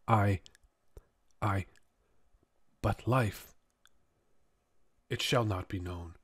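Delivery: faint, fading voice of a dying man; dying words. Acted. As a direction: breathe out the last words, weakening. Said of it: "the dying man".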